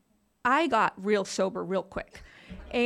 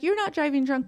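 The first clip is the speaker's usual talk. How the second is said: retold mock yell, pitched higher, not louder; imitating dad yelling; 6 semitones higher, 4 dB louder, faster than usual. Drunk dad yelling at his daughter not to leave, mock yell. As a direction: echo the drunk dad shouting, lightly. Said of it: "And he's like".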